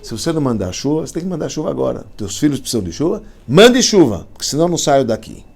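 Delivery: a sage haggling with God, building to a shout; demanding prayer to God. Retold or imitated. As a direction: retell a stubborn sage bargaining with God. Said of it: "falava assim".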